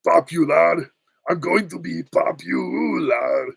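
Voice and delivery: slow, high-pitched singsong; preening good-witch voice; Glinda. Acted. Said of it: "with the Glinda".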